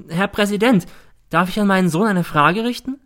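high, loud, pressing mother's voice; a mother pushing in before the judge; agitated mother. A narrator's reading. Mother interrupting the judge, high and loud.

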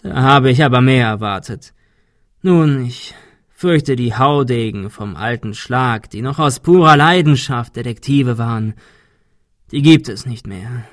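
lightly voiced hoarse villain, mocking. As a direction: sneer it out like a bitter old man.

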